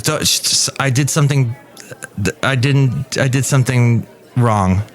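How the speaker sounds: stammering, shushing confession; mild mock panic. Panicked DJ confessing to his colleague, stammering. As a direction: stumble over the words as if rattled.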